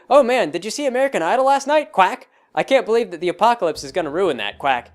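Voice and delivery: lightly voiced ice swan, quacking after each line; chatty swan gossip, tacking on a quack. Friend to friend, swans chatting about TV, a hint of swan voice. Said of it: "role-playing as ice swans".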